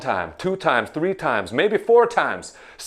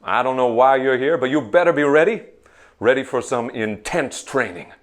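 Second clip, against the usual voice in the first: barked drill instructor commands; drill sergeant; faster than usual. Acted. Drill sergeant opening class for trainees. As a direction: bark it like a boot camp sergeant.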